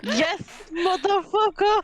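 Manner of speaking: laughing half crying; cracking up while swearing. Real, not acted. Player reacts to the joke, laughing.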